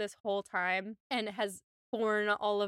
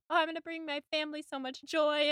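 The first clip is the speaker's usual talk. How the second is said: fast, bright rush of delight; lightly voiced happy Jane; eager joy; 5 semitones higher, faster than usual. Jane going to tell her mother, fast and eager. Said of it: "and she's like".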